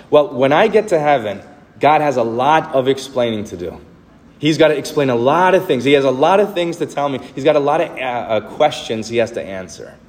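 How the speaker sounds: a hint of a demanding customer; arrogant complaint. Preacher mimics people complaining about God, lightly arrogant.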